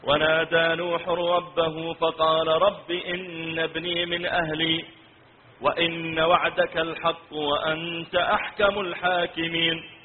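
slow melodic tilawa; Quran recitation. Acted. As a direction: recite slowly, drawing out the long vowels. (تلاوة قرآنية مرتلة)

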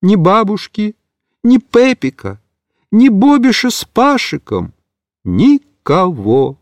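high plaintive cat voice trailing off slowly; a lost kitten listing who is gone; lamenting little cat. Acted. Kitten alone in the wagon, plaintive.

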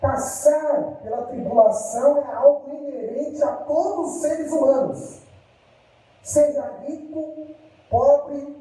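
slow and deliberate, each word apart; measured, spaced-out delivery; spoken slowly, word by word. Shown as a demonstration. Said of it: "eu vou falar pausadamente pra você entender".

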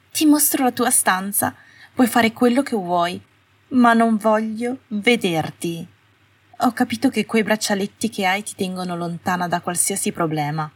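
high, cold voice slowing on the warning; cold witch. Acted. Astoria telling Hermione to stay out of sight, cold and high. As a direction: hold her at arm's length, clipped words.

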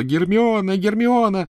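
high, loud desperate yell. A narrator's reading. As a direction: scream the name at full voice. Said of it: "заорал во всё горло".

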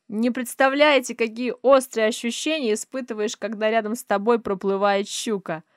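loud, happy man's voice; Adam's loud joyful voice; joyful booming. A narrator's reading. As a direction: boom it out with delight. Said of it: "Голос Адама радостный и громогласный".

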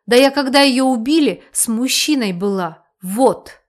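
loud defensive protest, rising in force; heated exclaiming. Acted. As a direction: blurt it out, building to a shout. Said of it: "Воскликнула она".

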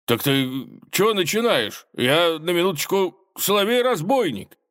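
high-pitched indignant protest. A narrator's reading. Bandit fed up with the tsar's teasing, indignant. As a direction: puff up and announce yourself, affronted.

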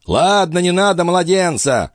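put-on high, strained old man's voice; old master's voice. A narrator's reading. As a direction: play the frail, urgent old alchemist. Althotas speaks.

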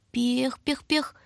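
put-on high baby whimper; small anxious puffs of a baby; fretful baby noises. A narrator's reading. Baby stirs restlessly in the drawer: high fretful pekh. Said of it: "беспокойно донеслось из ящика".

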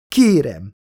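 restrained desperate outburst; yelled plea. A narrator's reading. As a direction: cry out the plea, not at full volume. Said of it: "ordította bele a férfi képébe".

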